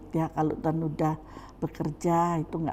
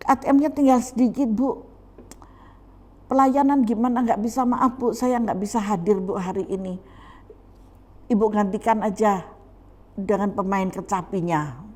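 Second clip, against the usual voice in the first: raised-pitch acted apology, easing down; mock apologetic excuse; 5 semitones higher, 5 dB louder than usual. Member begs off today's service to pastor, mock apologetic. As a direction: beg off politely, hammed up a little.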